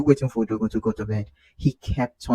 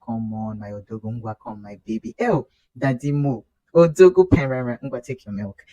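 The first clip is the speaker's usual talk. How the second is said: put-on coaxing baby talk; 4 dB louder than usual. Coaxing baby to drink milk.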